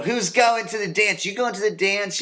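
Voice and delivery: put-on squeaky kid pestering about the dance; mock teen asking. Imitating kids asking each other about the spring dance, high and teasing.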